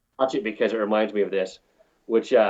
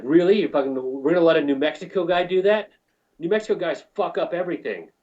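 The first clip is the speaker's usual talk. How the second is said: mocking coworker; 6 semitones higher than usual. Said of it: "this one dickhead I work with was just like".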